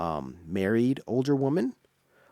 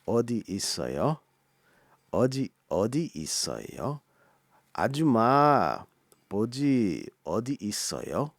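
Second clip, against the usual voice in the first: quick repeat; much faster than usual. Shown as a demonstration. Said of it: "repeats the phrase".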